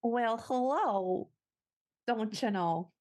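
slow folksy Midwest "well, hello, don't you know"; a hint of Midwest nice; Midwest accent. Guest greeting the host in a light Midwest voice. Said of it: "trying to do a Midwest accent".

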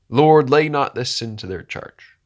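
a loud, pleading cry to the Lord; Stephen's loud final plea. Retold or imitated. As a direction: call it out loud like a dying prayer. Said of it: "cried with a loud voice".

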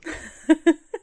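light high laugh; high giggle. Real, not acted. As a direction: giggle at your own bit. Laughs after the impression.

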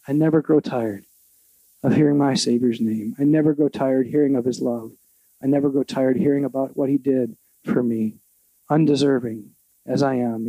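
low, hushed and earnest; tender reflection. Real, not acted. Pastor closing on the Savior's love, low and tender.

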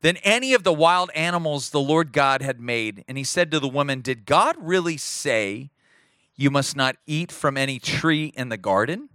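measured, solemn Bible reading to the church; scripture reading. Acted. Pastor reading Genesis to the congregation, solemn and measured.

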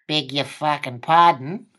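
slow, lightly imitated indignant politeness; mock polite. Caught-out passenger answers the cabbie, mock polite. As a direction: say it slowly, politely, with the swearing slipped in. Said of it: "it was polite".

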